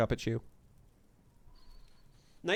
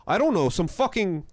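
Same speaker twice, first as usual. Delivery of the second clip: lightly put-on kid accent, groping for words; mildly faked street accent; flustered brat in a slight mock accent; 3 semitones higher than usual. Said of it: "I'll do more of the accent".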